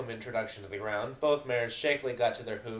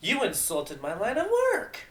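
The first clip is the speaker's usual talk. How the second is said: angry accusation; 10 semitones higher, 6 dB louder, slower than usual. Acted. Mares arguing.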